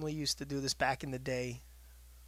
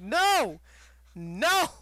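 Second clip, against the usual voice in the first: louder, higher repeated refusal; loud no to the sugar-loving critic; firm loud no; 6 semitones higher, 5 dB louder, much slower than usual. Retold or imitated. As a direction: shut him down hard. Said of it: "I'm like".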